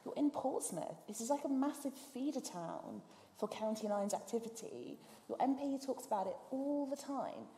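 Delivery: high, loud indignant disbelief; indignant outburst. Retold or imitated. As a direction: lay into him with outraged disbelief. Retelling her indignant reply to judge.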